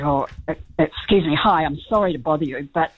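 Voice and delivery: lightly put-on Kiwi accent, polite and apologetic; a hint of a polite Kiwi accent; best Kiwi accent. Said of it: "in my best Kiwi accent".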